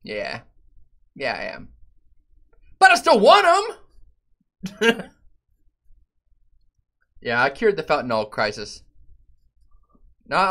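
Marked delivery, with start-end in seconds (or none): 2.8-5.1 squeaky raised plea; high mock whine. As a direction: plead up high, hammed-up.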